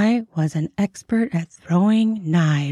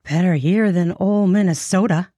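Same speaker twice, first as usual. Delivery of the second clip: chuckling; 6 semitones higher, 4 dB louder than usual. A narrator's reading. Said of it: "she chuckled".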